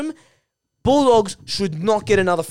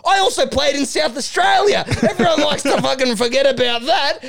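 higher-pitched mock indignation; Duck, indignant; 6 semitones higher than usual. Veteran scolding the young player, high mock indignation. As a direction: tell him off, pitched up, half-joking. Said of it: "And Duck goes".

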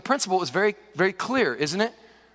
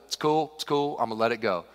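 casual forgiveness; 7 semitones lower than usual. Acted. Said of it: "and be like".

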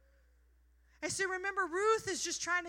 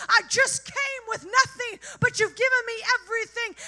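awed grateful Ruth; 4 semitones higher, 7 dB louder than usual. Pretend. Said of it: "And she's like".

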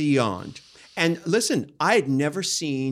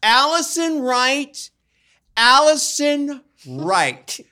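emphatic; 8 semitones higher, 6 dB louder, much slower than usual. Real, not acted. Repeating name emphatically.

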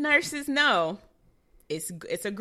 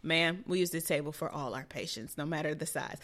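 unbothered staffer; 3 semitones lower than usual. Retold or imitated. Acts unbothered operating room staffer answering her.

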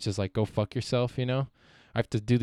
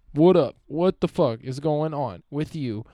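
a high, loud, hammed-up bro greeting, slower at the end; hyped-up greeting; 4 semitones higher, 4 dB louder, slower than usual. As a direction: shout a fake-excited hello to your kid brother. Mock hyped greeting to brother.

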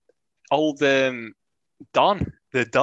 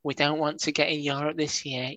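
softer, whining complaint; whiny voice; 5 dB quieter than usual. Retold or imitated. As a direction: moan it like a timid fan. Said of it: "This is just my whiny voice".

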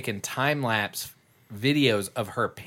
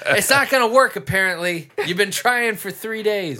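much higher, louder hammed-up complaint; exasperated mock outburst; 9 semitones higher, 5 dB louder than usual. Mimicking friend to Mom about the broken phone, exasperated. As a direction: imitate someone at the end of their patience.

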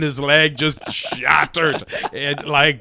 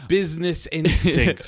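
said very Santiago; 4 dB quieter than usual. Retold or imitated. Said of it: "You said it very Santiago".

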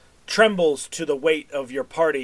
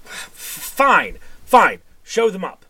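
louder, higher, impatient; booming voice; 5 semitones higher, 4 dB louder than usual. Acted. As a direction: grudgingly boom permission to the guard. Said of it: "the sort of booming voice go".

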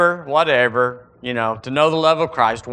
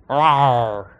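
cranky growl; 4 semitones lower than usual. Pretend. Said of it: "There's no cranky fullness of God".

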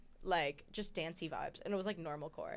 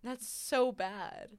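laughing; 5 semitones higher, much slower than usual. Real, not acted. Laughing, drawn out.

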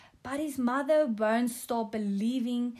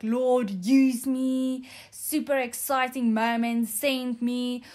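mock-amped yes to the Lord, a bit louder; 4 dB louder than usual. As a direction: recall the rush of being eager to be sent. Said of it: "I was amped".

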